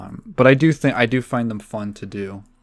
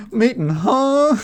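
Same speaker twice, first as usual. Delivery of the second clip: Steve Harvey voice; 12 semitones higher, 4 dB louder, slower than usual. Acted. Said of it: "And he goes".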